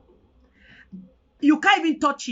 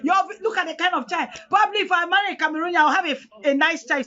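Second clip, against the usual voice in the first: raised-pitch scolding, only mildly shouted; retold shouting; 4 semitones higher than usual. Husband and wife quarrelling over the baby, mild retold shouting. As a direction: re-enact a quarrel with a lifted voice. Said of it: "my husband will come and be shouting at me".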